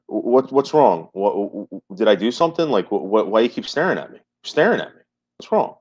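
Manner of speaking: imitating a friend getting rattled, stammering; mildly upset, stumbling retold questions. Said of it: "He started getting really upset".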